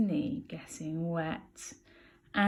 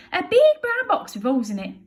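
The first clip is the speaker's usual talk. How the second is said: Bill voice; 11 semitones higher, 9 dB louder than usual. Acted. Bill answers.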